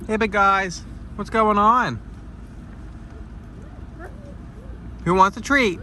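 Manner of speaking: high sing-song voice for animals; pet talk voice. Real, not acted. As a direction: coo at the animals with treats. Greeting animals, offering treats.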